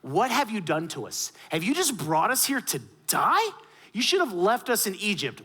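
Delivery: acted-out indignant accusation; crying out. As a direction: imitate people crying out in protest. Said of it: "They started crying out to Moses".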